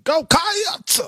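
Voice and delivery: "Cats" pitched high and dragged into two syllables; extra syllable. Shown as a demonstration. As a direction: overdo the Kentucky "Cats". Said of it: "You're adding a syllable".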